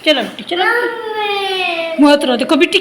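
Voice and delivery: slow, hushed, tender coaxing. Real, not acted. Mother gently coaxing her little daughter.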